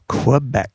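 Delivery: "Quebec" set apart and stressed; emphasis on Quebec. Shown as a demonstration. Co-host reading out Gary's call sign, emphasis on "Quebec". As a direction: lean on the word "Quebec". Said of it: "Emphasis on the Quebec".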